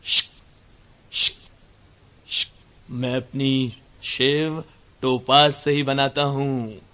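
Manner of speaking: low, slow ad-man voice with shaving sounds; slow, smug commercial pitch; a mock shaving ad; ad voiceover. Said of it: "एक आदमी शेव कर रहा है".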